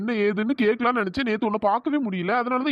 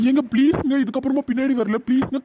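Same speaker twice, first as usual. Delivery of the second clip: pleading; 4 semitones higher than usual. Acted. Pleading with angry girl.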